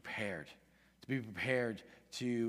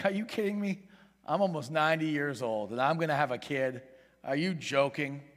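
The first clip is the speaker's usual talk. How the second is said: mock-incredulous questioning; mocking disbelief; 3 semitones higher, 4 dB louder than usual. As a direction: scoff as if it's a ridiculous promise. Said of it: "mocking God, saying".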